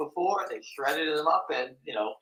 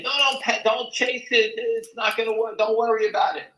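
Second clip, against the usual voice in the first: lightly voiced broker, pitched up, telling him not to chase it; mock broker on the phone; 8 semitones higher than usual. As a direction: play a brisk broker waving off the worry, a bit higher. Broker calling the short seller.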